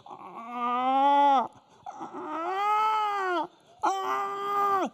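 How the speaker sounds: crying squeals of seals; panicked seals. Retold or imitated. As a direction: wail like frightened seals. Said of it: "the seals going like".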